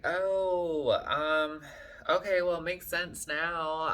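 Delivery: retold awkward reply. Replaying her answer to his compliment, awkwardly polite. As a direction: stall with a high "oh", then concede.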